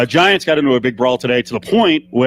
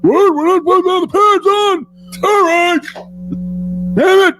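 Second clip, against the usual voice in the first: big guy voice. Acted. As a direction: bellow like a dumb big lug. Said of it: "we just have to do a big guy voice".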